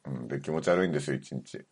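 low, drained hungover voice. Real, not acted. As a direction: talk like you feel sick from drink.

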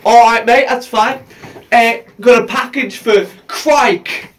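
imitated Cockney postman, slowing at the end; mock Cockney delivery; Cockney accent. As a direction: put on Cockney vowels, drawing out the name. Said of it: "he said it with his accent as Crike".

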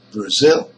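Brazil with a short, weak "Bra"; "Brazil": stretch and stress the ZIL; stress on second syllable. Shown as a demonstration. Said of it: "it is a stressed syllable".

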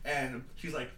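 ordinary talk

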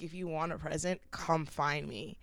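soft, low, flirty come-on, half whispered; retold whisper. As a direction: lightly imitate whispering an invitation in someone's ear. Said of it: "leaned over and whispered in his ear".

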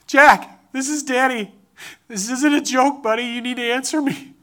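re-enacted father's call, loud on the name then easing; retold yelling. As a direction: call out for a lost son, urgent but only half-yelled. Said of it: "right after I got done yelling".

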